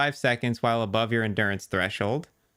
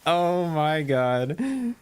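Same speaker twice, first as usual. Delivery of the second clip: awed excitement; 4 semitones higher, much slower than usual. Real, not acted. Rare drop excitement.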